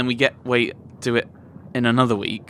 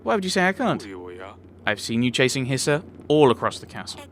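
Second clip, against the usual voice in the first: character read; 3 semitones higher than usual. Acted. Voices Sidani, higher.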